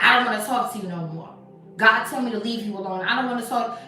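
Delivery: loud, fast, harsh brush-off; mean brush-off. Shown as a demonstration. To a friend who texts, a loud, fast, mean refusal. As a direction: snap it at them to push them away. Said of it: "You don't gotta say it like that".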